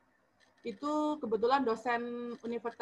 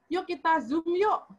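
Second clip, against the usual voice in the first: cheery coaxing; 6 semitones higher, 4 dB louder than usual. Retold or imitated. Coaxing niece into a video call.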